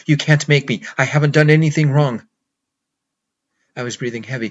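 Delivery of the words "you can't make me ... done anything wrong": loud, desperate yelling; cornered man screaming back; shouting at the officers in panic, loud; panicked shout. Acted. Panicked refusal to police officers.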